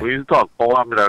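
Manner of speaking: put-on deep, thick character voice. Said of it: "이렇게 좀 굵고, 굵게 하거든요".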